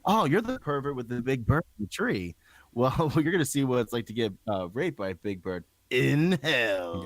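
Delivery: gleefully quoting the devil from Little Nicky; Little Nicky devil quote. Retold or imitated. Podcast host quotes a favorite film scene, playful villain voice. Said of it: "I fucking love Little Nicky".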